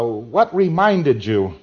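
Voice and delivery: WHAT REMINDED YOU drawn out slowly and loud; slow, emphatic "what reminded you"; auditor's probing question. Acted. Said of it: "And you say".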